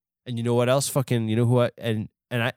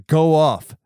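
hyped cheer; 6 dB louder than usual. Real, not acted. Cheering co-host's rant.

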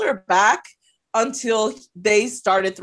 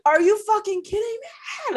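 mock scream; 11 semitones higher than usual. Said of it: "we started, like, screaming".

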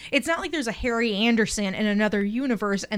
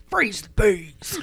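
slow whispered catchphrase; whispering; much slower than usual. Pretend. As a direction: breathe it out slowly.

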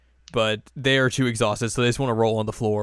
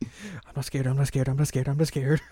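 higher voice, nervously insisting; false bravado; 4 semitones higher than usual. Retold or imitated. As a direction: insist shakily you're not scared. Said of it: "And she freaks out".

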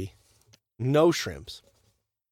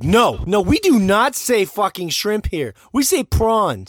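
slow, higher and louder, insisting; imitating locals correcting a tourist; mock adamant Aussie; 6 semitones higher, 5 dB louder, slower than usual. Mocking how Australians insist on saying prawns, adamant. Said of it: "weird to be so adamant about that".

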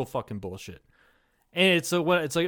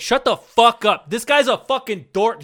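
higher, louder scoffing shout; loud retort; 7 semitones higher, 8 dB louder than usual. Retold or imitated. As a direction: bark it back in disgust. Retorting to the soft-spoken guy.

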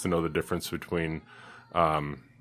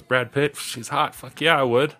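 sister; 7 semitones higher, slower than usual. Retold or imitated. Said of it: "his sister and she goes".

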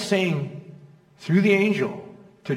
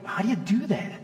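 high, puzzled mock question; a hint of a bewildered young dad; baffled new dad; 7 semitones higher than usual. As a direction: imitate a lost first-time father. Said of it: "I'm going".

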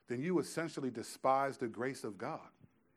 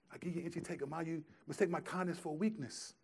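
quiet mom scolding; 3 semitones higher, 6 dB quieter, faster than usual. Retold or imitated. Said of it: "He said".

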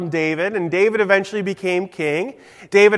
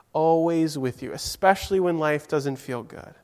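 softer, lower reassurance from God; comforting God; 4 semitones lower, 3 dB quieter than usual. Acted. God comforting sad David, soft and lower. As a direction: soothe David, softly and gently. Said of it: "we can imagine God saying".

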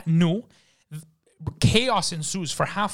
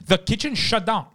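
ordinary talk, nothing marked

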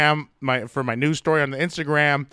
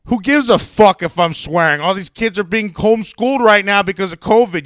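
raised, angry tirade at the wife; heated rant; 4 semitones higher than usual. Retold or imitated. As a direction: lay into her, worked up. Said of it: "I told my wife".

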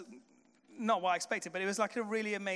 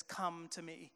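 quiet close; 3 semitones lower, 9 dB quieter, slower than usual. Real, not acted. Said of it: "closing line of the sermon".

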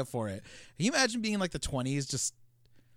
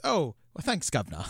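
mock cockney. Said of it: "He says".

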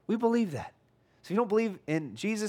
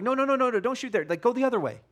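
calling out to a player; 4 semitones higher than usual. Retold or imitated. Coach calling to a player shooting at the wrong goal. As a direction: call out to a teammate heading the wrong way. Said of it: "you're like".

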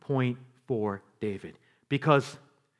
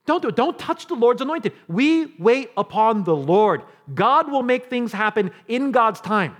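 firm refusal, building louder and higher; David's confidence; 6 semitones higher, 6 dB louder than usual. Acted. David telling Abishai to wait on God, with growing confidence. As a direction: start restrained, build to a ringing declaration. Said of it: "Listen to his confidence".

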